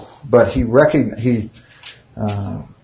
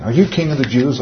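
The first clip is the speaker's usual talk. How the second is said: serious; 3 semitones higher than usual. Shown as a demonstration. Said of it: "like it was real serious".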